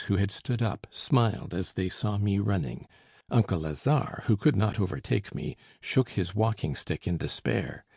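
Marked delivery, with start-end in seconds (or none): none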